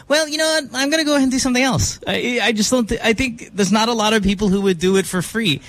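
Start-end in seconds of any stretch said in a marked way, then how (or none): 0.1-3.7 dismissive quip. Retold or imitated. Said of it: "If I told you".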